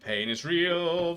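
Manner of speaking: slow, high, dramatic; drawn out high. Acted. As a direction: stretch it out mournfully. Repeating phrase dramatically.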